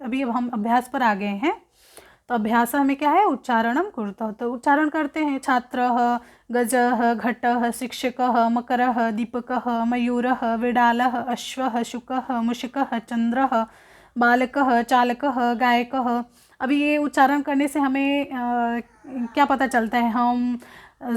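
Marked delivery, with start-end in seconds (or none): 5.4-16.2 steady recitation of Sanskrit words; teacher reciting vocabulary list; reading a word drill. Shown as a demonstration. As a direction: read each word as a model for students. Pronunciation drill read aloud.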